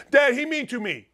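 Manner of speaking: a hint of a pouting child; whiny little kid. Imitating his daughter whining to her dad, lightly voiced. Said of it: "that's the voice I go".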